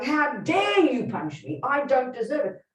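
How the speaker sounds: drawn-out, hammed-up tearful protest; slow, pretend sobbing complaint; mock crying. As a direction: play the wounded victim in fake tears. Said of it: "Imagine if I started bursting into tears and crying".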